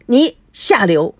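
slow, loud, biting outrage; enraged wife condemning the mistress, slow and loud; furious. Acted. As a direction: spit out the insult slowly. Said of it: "孙娜气极了".

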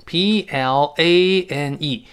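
slow letter-by-letter spelling; 逐字母拼读. Shown as a demonstration. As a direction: spell it out slowly. Teacher spells the word. (慢慢逐个字母拼读)

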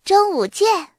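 cheerful, high and loud farewell; 笑着说. A narrator's reading. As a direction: say it with a smile. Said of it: "芳心也笑着说". (笑着高声道别)

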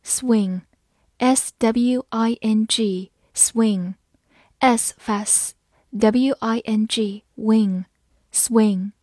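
slow, spaced-out breakdown of the word; slow spelling drill. Shown as a demonstration. Teacher breaks a word into sounds for learners, spelled slowly. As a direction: spell it out, then sound each part.

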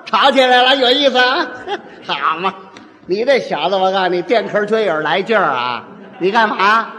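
mild provoking peacemaker. Acted. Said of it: "哪有这样劝的".

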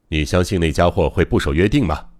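understated, grave question; serious tone. Acted. Doctor questioning the relaxed guard, in a serious tone. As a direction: ask it in all seriousness. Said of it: "他以更加严肃的语气说道".

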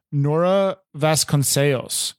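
Nora Vasconcelos said the Portuguese way, Vasconcelos as vas-kon-SAY-los; careful Portuguese Vasconcelos, -los ending swallowed; Portuguese pronunciation. Shown as a demonstration. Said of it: "the correct way to say it".

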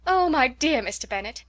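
breathless wife bursting into the room; gushing. A narrator's reading. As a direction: burst in full of news. Mrs Bennet gushing to husband.

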